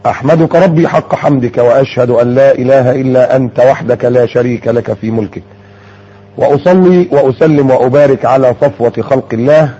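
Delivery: measured, formal khutba recitation; sermon opening. Acted. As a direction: open the sermon with solemn, measured praise.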